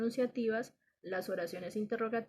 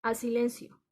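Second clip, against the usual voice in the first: firm command; 3 semitones higher, 6 dB louder, slower than usual. Shown as a demonstration. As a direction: snap it out like a strict teacher. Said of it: "otro tipo de oración imperativa".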